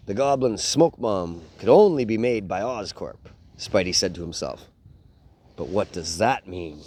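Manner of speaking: put-on reading a picture book aloud to kids; lively bedtime story read. Dad reading a Spider-Man book to his boys, storytelling voice.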